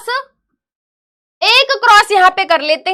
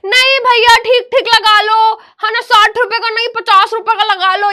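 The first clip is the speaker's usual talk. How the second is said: higher-pitched mock bargaining plea; mock market haggler; 4 semitones higher, 3 dB louder than usual. Teacher mimicking students as market hagglers, mock wheedling. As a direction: lightly imitate a haggling vegetable shopper. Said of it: "तुम ये सब्जी market में आए हो क्या?".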